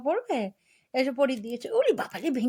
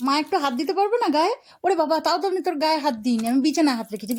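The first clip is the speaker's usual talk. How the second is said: louder, fast playful protest; hammed-up hurt mother; mock indignant complaint; 3 semitones higher, 6 dB louder, faster than usual. Real, not acted. (মজা করে অভিমানী গলা)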